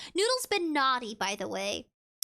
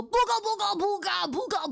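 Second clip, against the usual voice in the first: ghost scare call; 5 semitones higher than usual. Pretend. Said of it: "run up to it and go".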